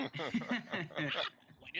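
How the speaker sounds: high squawking parrot call. Acted. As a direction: screech it like a parrot.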